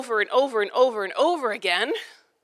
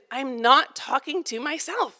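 slow, deliberate, mock exasperated; understated retold scolding; exasperated yell; 2 semitones higher, slower than usual. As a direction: drag it out like a fed-up parent. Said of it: "I start yelling".

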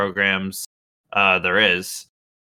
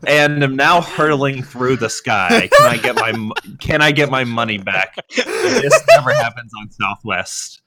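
hammed-up indignant customer complaint, louder on the punchlines; mock outrage; 3 semitones higher, 5 dB louder than usual. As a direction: read it as a mock-outraged complaint, on the edge of laughing. Reads out an outraged tweet, laughing.

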